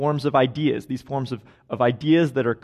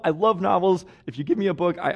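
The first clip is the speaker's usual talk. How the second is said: usual speaking voice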